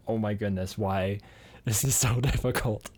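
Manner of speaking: slow, laughing disbelief at French rules; exasperated laughing. Retold or imitated. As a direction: laugh through the frustration, drawn out. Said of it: "I'm like".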